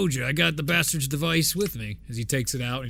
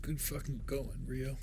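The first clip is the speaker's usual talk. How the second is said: quiet muttering under the breath, quieter; 12 dB quieter than usual. Voicing a character annoyed at Rio: muttered under his breath. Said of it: "Under his breath".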